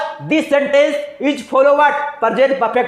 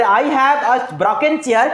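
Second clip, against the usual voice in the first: slow dictation; much slower than usual. Shown as a demonstration. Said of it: "मैंने".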